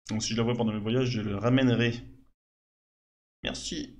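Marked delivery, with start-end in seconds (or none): 3.4-4.0 breathy whisper of thanks. Acted. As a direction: whisper it gently. (merci chuchoté)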